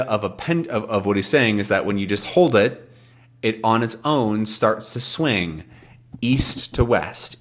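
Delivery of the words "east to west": slow whisper of east to west. Shown as a demonstration. Teacher whispers the pendulum's swing. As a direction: breathe it out slowly. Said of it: "demonstrating the swing".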